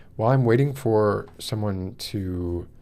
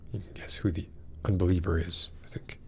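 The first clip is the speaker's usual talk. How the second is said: conspiratorial whispered aside; hushed knowing aside to the audience; 8 dB quieter than usual. Real, not acted. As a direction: lean in and whisper it like a shared joke.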